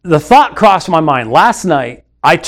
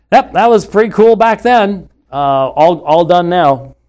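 mock dismissive; 3 semitones higher than usual. Mocking opponents' dismissive view.

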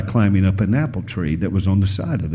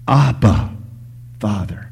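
crying out. Acted. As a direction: call out to God, then let it drop. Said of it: "we know to cry out".

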